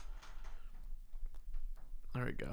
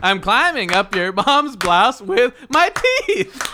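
loud, high, drawn-out singer impression; 8 semitones higher, 7 dB louder, slower than usual. Player improvising an answer in the game, hollered impression. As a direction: holler it slowly in rhythm. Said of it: "an impersonation of a singer".

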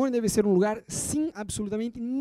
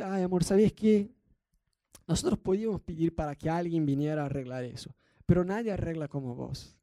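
mock sweet request. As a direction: sweet-talk him gently, a touch hammed. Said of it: "Tienes que pedir".

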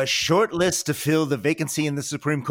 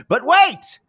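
dramatic reveal; 12 semitones higher, 4 dB louder than usual. Acted. Dramatic announcement of Mets series.

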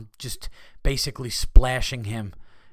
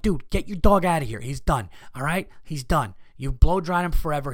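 louder, mildly acted impatience; exasperated complaint; 2 semitones higher, 3 dB louder than usual. Dog owner to man blow-drying dog, impatient. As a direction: urge him to leave, as a retold protest.

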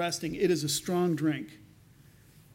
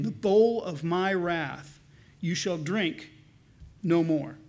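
solemn scripture reading. Acted. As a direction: proclaim it as God's own word. Reads Isaiah aloud.

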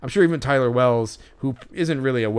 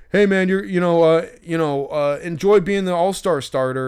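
high, loud gushing fan impression; mock fan yell; 7 semitones higher, 6 dB louder than usual. Imitating the fan yelling a stat at the pitcher, high and loud. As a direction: overdo the fan's eager shout.

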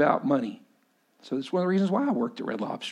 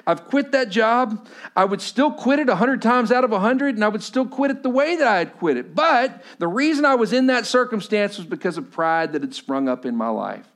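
raised, high-pitched sermon delivery; emphatic preaching; 7 semitones higher, 4 dB louder than usual. Real, not acted. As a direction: drive the testimony home, high and forceful. Preaches with rising force.

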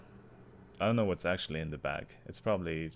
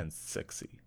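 breathy whisper; 2 semitones lower, 9 dB quieter, slower than usual. Pretend. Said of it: "sultry joke about hot tea".

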